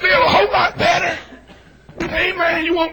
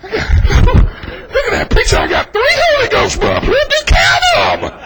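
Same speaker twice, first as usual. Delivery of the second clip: high, strained mimicry of restrained worshippers; hammed-up dignified thrill, pitched way up; mock dignified Baptist; 8 semitones higher, 5 dB louder than usual. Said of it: "But them old dignified Baptists, I go".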